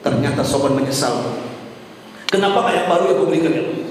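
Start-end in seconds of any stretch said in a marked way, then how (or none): 2.3-3.8 quick, imitated plea to God; regretful plea. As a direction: rush out the regret, only lightly raised. Dying man's regret, first take.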